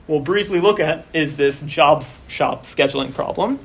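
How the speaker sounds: strained, tiring voice; losing voice. Real, not acted. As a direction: voice going hoarse. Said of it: "I'm losing my voice".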